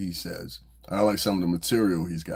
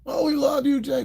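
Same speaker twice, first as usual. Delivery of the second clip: high falsetto fake-love voice; sing-song sucking up, squeaky and fake; mock flattery. Mocking fair-weather friends with a high fake gush.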